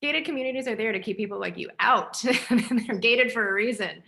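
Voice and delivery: amused mock brush-off with a laugh; retold laughing dismissal. Friends laughing at a filmmaker's plea, retold laughing dismissal. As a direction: imitate them, laughing between phrases. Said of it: "And they laughed. They're like".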